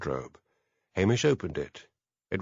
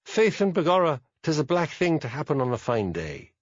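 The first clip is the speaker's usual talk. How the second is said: higher-pitched stage Irish accent, lightly hammed; mock Irish accent; 4 semitones higher than usual. Laird imitating the robber's Irish accent for the policeman. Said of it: "one sounded a bit Irish".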